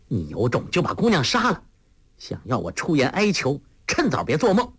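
stern shout. Acted. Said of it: "厉声喝道".

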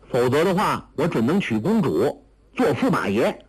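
high, lilting self-satisfaction; boastful. Acted. Son dreaming aloud of marrying a princess, boastful. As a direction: show off with a lifted, swinging pitch.

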